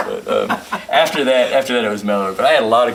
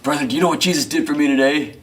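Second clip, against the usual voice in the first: a touch of a raised, eager preacher voice; lightly voiced choir man pressing a question; fervent church brother; 6 semitones higher, 4 dB louder than usual. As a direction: lean in and ask with churchy fervour. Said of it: "The guy from the choir leans over".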